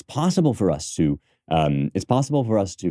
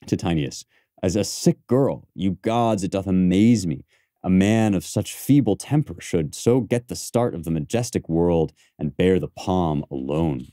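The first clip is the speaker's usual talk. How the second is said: reciting Cassius. Shown as a demonstration. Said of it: "I did hear him groan".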